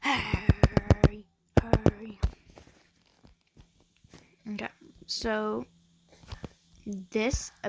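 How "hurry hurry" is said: louder impatient urging; impatient hurry. Real, not acted. Vlogger urging a slow game, loud and impatient.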